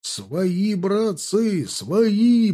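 high, urgent calling-out; lifted, drawn-out shout; shouted plea. A narrator's reading. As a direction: call to comrades that you are friends. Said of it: "прокричали они".

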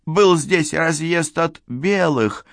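high, hesitant character voice; high-pitched uncertain suggestion; unsure beekeeper. A narrator's reading. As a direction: offer a timid guess, dragging the words. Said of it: "неуверенно пробормотал пасечник".

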